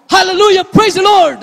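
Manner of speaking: loud, high burst of hallelujah; startled believer crying hallelujah, loud and high; startled praise. Retold or imitated. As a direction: blurt it out as if suddenly surprised. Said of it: "ang nasasambit mo".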